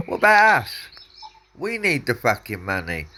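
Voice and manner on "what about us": sudden high, louder protest; rising indignation at the government; indignant outburst. Real, not acted. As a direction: fire it back as an angry question. Angry rant about government spending.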